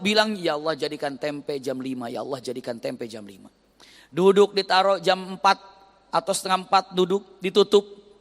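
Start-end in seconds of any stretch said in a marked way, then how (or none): 0.4-3.5 soft plea sinking lower and quieter; wife praying, fading softer; fading prayer. Retold or imitated. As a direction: let the prayer fade to a hush.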